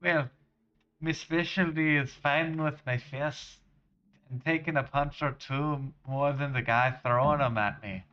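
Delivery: hearty generic Scottish lad-speak; terrible Scottish accent. Acted. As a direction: put on a bad Scottish accent. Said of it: "accent for this random character".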